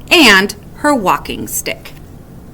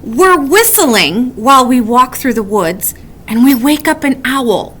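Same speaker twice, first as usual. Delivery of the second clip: worried; 2 semitones higher than usual. Acted. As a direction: build panic to the final question. Woodchuck's worried what-ifs.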